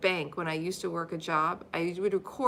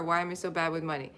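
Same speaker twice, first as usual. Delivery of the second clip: quick, softer self-doubting mumble of "bad with money"; mopey negative thought; 4 semitones lower, 4 dB quieter, faster than usual. Shown as a demonstration. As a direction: toss off the negative thought fast. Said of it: "The opposite of it".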